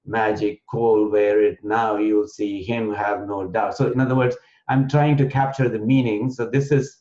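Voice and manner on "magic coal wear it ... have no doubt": slow, metrical poem recital; anapest verse. Shown as a demonstration. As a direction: recite it in measured groups of three beats. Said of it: "there's a meter called the Anapest meter".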